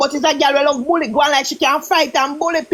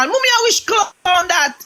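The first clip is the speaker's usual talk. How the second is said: lightly voiced little girl, higher pitch; small daughter; 5 semitones higher than usual. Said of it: "she this small".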